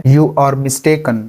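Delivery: drawn out slowly. Shown as a demonstration. Teacher models the sentence slowly. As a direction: say it slowly and clearly. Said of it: "इसको English में कहते हैं".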